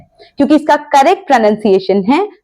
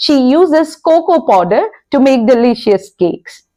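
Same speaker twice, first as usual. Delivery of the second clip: very slow, deliberate example sentence; slow, careful English demo; slow model sentence; much slower than usual. Shown as a demonstration. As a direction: spell it out word by word for learners. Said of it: "example के लिए".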